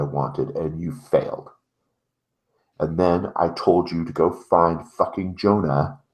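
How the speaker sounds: measured anger, long deliberate pauses; stern menacing Thomas. Acted. Thomas telling the delivery boy he failed, stern and menacing.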